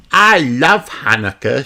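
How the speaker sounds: put-on a happy little girl; Peppa voice. Peppa tells her grandparents, happy child voice. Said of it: "she says".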